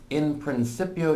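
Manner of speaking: "In principio" in the teacher's own Latin pronunciation. Shown as a demonstration. Teacher introduces the Latin of John one one, Latin pronunciation. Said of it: "this is just the pronunciation I use".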